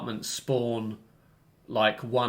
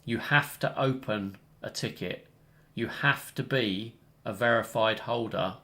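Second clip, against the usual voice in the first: deliberate, measured instruction, point by point; clearly laying down the rules; clear reiteration. Real, not acted. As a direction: spell out each requirement with pauses between. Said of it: "reiterate clearly to people".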